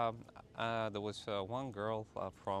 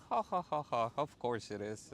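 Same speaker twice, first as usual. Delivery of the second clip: mocking laugh; 2 semitones higher than usual. Girlfriend laughing off his romantic claim, teasing. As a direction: laugh at his cheesy line, then tease.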